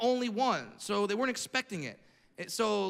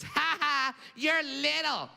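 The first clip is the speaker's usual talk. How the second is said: higher, sing-song playground taunt; taunting kid; 6 semitones higher, much slower than usual. Retold or imitated. Bully kid mocking him in line, high mock taunt. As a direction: tease like a bratty little kid. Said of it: "points his finger in my face and goes".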